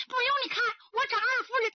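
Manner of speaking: high, tearful refusal; a frightened maid crying out; upset crying. A narrator's reading. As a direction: push him off through tears.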